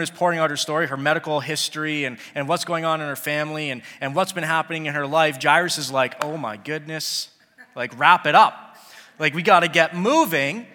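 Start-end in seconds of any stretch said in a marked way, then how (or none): 6.2-10.7 loud, pressing plea to hurry up; impatient urging. Pretend. Father begging Jesus to hurry, loud and urgent. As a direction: hurry him along, getting louder.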